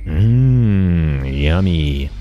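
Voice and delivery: savoring a bite while talking; mouth full. Real, not acted. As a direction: speak through a mouthful of cream. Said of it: "you aren't supposed to speak with your mouth full".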